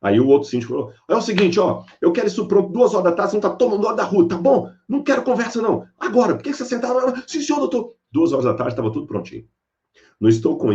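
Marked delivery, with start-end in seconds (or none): 1.1-7.2 high, sharp ordering voice; mock stern boss, pitched up; bossy manager. Old manager barking orders. 7.3-7.9 high, eager yes-sir voice of simple workers; humble worker. Retold or imitated. Worker obeying the boss.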